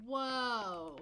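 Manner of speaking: loud delighted whoa; surprised. Real, not acted. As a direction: gasp at the money. Reacts to big earnings.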